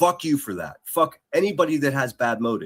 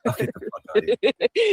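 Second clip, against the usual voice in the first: incredulous; 13 semitones higher than usual. Real, not acted. Denying caller's teasing claim.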